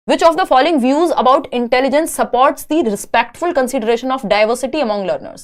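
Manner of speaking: slow, deliberate read-aloud of an exam question. Acted. Teacher reading a test question to students, slow and deliberate. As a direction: read it out word by word for the class.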